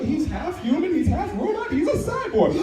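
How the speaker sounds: put-on high, wobbly old man voice; a hint of a crotchety grandpa. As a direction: play the grandpa in the bit. Grandpa voiced in stand-up bit.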